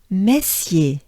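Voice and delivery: "Messier" as meh-syay in careful French; French teacher's clear "Messier", short gliding ending; whole French name. Shown as a demonstration. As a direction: model "Messier" whole on one good breath. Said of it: "it goes like this".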